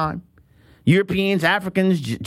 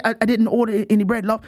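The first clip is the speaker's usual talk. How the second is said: mock British. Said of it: "And I say".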